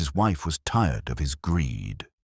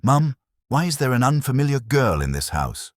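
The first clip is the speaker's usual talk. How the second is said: higher, louder angry shout; 9 semitones higher, 4 dB louder than usual. A narrator's reading. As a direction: storm in and demand an answer. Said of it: "stormed into the house shouting".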